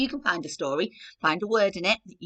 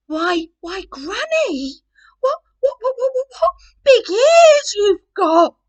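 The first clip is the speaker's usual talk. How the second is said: high, loud, rising frightened stammer; stammering Red; 13 dB louder than usual. Acted. Red facing the wolf in Granny's bed, high frightened stammer. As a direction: stutter it out, more scared each word.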